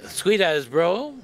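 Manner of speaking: drawn-out Kiwi accent, said as a model; Kiwi slang demo. Shown as a demonstration. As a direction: Kiwi accent, stretched out for the room to repeat. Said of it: "Pourriez-vous répéter après moi?".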